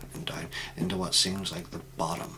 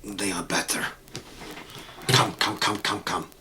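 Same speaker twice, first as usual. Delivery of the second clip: put-on measured Eastern European accent, building to brisk beckoning; 3 dB louder than usual. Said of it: "an Eastern European accent".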